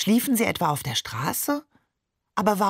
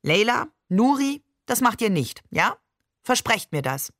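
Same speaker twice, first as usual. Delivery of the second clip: half-hearted authority; 4 semitones higher than usual. Acted. Father warning the children off the river, half-stern. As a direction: try to sound strict, not quite managing. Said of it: "in einem halbwegs autoritären Ton".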